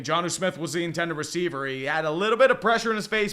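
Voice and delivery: steady football play-by-play call. Acted. Commentator calling a pass play for listeners, live play-by-play. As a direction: call the action as the play unfolds.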